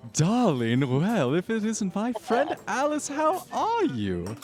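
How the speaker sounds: high, gushing sing-song darling voice; sing-song socialite. Acted. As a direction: coo it like a theatrical socialite. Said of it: "a beautifully sing-song voice".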